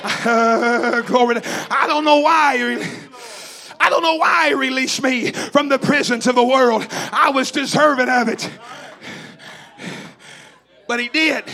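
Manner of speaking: shouted, rhythmic revival preaching; fiery holiness preacher in full flow; preaching at full force. Acted.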